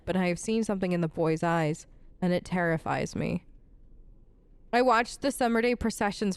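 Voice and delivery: understated dramatic journal reading; reading a journal aloud. A narrator's reading. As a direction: read out a bitter noblewoman's diary, restrained. It looks like Sophia's journal.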